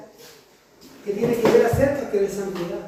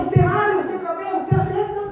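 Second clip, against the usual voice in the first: higher, bossy listing of chores; mother's orders; 7 semitones higher than usual. Retold or imitated. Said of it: "decía".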